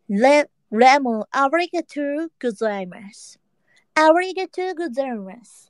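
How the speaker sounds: Japanese thanks in a mock English accent; mushy English accent. Shown as a demonstration. Streamer shows off their English pronunciation, mushy accent. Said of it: "英語の発音もっちゃもっちゃしてるよ".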